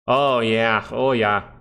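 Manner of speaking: a hint of Canadian, drawn-out oh yeah; lightly Canadian "Oh, yeah" with a ringing "Oh"; light Canadian accent. Streamer answering chat with a touch of Canadian accent. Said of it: "Why do I sound like a Canadian?".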